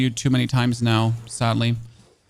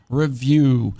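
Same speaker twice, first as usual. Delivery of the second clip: review with the weight on -VIEW; re-VIEW, second syllable stressed. Shown as a demonstration. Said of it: "the emphasis is on the second syllable".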